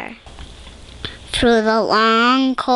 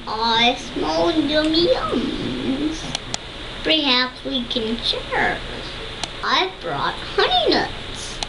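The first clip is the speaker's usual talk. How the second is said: grinning badger voice; 4 semitones higher than usual. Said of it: "Badger says with a grin".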